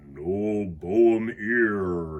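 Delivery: very slow, sniffly soggy rag voice; sniffling rag. Acted. Saggy rag in the cleaning supplies sniffling at Arthur. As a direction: drag it out like a damp sniffling rag. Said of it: "sniffles the saggy rag".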